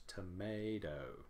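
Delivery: "Tomato" slow, with a short soft tuh first; unstressed first syllable. Shown as a demonstration. Teacher demonstrating weak first syllable, "Tomato" said slowly. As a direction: keep the first syllable of "Tomato" small, draw out MAY. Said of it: "It is short, soft, and lower in pitch".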